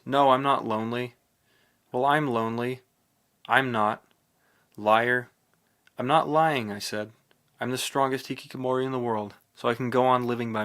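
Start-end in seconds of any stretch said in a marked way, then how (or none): 0.0-1.1 shouted back, much louder; loud answer. A narrator's reading. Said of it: "I answered in a loud voice". 1.9-6.7 loud, stubborn back-and-forth; shouted exchange. A narrator's reading.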